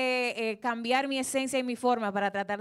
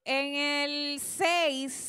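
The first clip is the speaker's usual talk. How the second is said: slow breathy whisper of the number; much slower than usual. Real, not acted. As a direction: whisper it slowly, like a secret. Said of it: "susurra el número". (susurrando lento el número)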